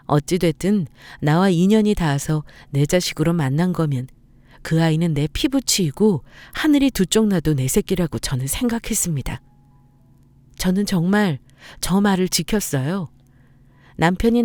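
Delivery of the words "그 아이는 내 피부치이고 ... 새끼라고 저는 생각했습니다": usual speaking voice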